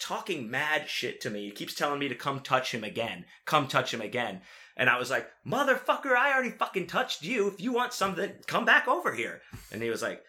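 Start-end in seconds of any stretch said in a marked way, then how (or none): 5.5-9.4 high-pitched indignant challenge, not shouted; retold outrage, pitched way up; acted-out angry comeback. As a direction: throw the dare back, mock incensed. Acting out own furious comeback.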